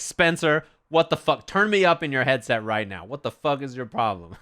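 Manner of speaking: mock-angry telling-off; pissed off. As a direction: chew out a teammate, playing it up. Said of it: "I was so pissed".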